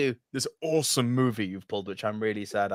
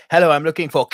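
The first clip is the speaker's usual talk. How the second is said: mock Russian accent; 4 semitones higher, 8 dB louder, faster than usual. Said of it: "She does it actually really well".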